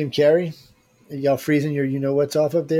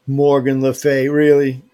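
louder, slow and drawn out, doubting the name; amused disbelief; 8 dB louder, slower than usual. Real, not acted. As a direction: read it back like you can't believe it. Reading a viewer's witch name.

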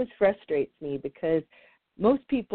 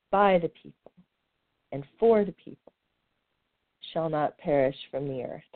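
formal recitation. Acted. Reciting the Gettysburg Address.

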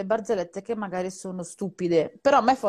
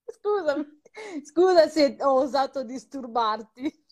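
mock apology; 4 semitones higher, slower than usual. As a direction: fake whiny apology, slow.

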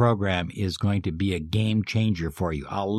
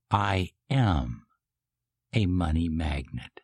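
felt affirmation; 2 semitones lower than usual. Shown as a demonstration. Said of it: "Emotionalize it".

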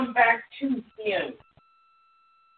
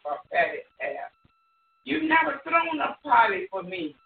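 raised, shouted bursts of complaint; aggrieved son; 3 semitones higher than usual. Retold or imitated. Older brother accusing his father of unfairness, aggrieved shouting. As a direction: let the hurt boil over in bursts.

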